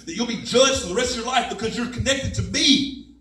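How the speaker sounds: God roaring his past back at him; God reminding him of the suicide note, shouting. Retold or imitated. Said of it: "And God said".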